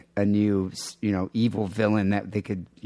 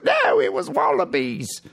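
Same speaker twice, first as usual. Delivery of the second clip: slow, higher put-on wife; the wife insisting, in a slow, higher put-on voice; mock wife voice; 7 semitones higher, 4 dB louder, slower than usual. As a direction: drawl it out as the Aussie wife. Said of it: "his wife's like".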